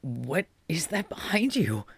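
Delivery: breathy whisper, spooked; hushed whisper. Acted. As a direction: whisper it like something's behind them. Character gasps.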